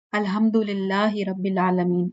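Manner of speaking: "الحمد للہ رب العالمین" with plain h and no throaty ain; common recitation. Shown as a demonstration. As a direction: recite "العالمین" as an everyday aalameen. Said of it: "اس طرح سے پڑھتے ہیں نا". ("العالمین" عام لہجے میں، عین کے بغیر)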